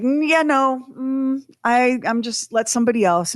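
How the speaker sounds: high, squeaky backing out of riding the elephant; a scared little no-thank-you; nervous refusal. Retold or imitated. To the gruff trainer, a nervous high refusal. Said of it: "And I was like".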